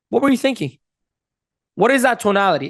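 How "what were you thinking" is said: higher-pitched open-minded question; curious, caring. Shown as a demonstration. Coach modelling a tonality of curiosity, caring. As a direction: ask to understand them. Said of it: "It's a tonality of curiosity".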